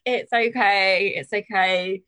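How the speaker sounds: put-on lightly French-accented grandmother soothing; nan's French accent. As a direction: imitate nan's French it's okay, drawn out. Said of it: "I put her accent on".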